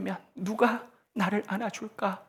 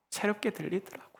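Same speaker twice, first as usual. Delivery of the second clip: ordinary talk, nothing marked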